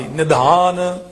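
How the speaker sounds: ਨਿਧਾਨ with a heavy dh. Shown as a demonstration. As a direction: give the ਧ in ਨਿਧਾਨ its heavy sound. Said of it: "ਜੇ ਧੱਦੇ ਦੀ ਆਵਾਜ਼ ਭਾਰੀ".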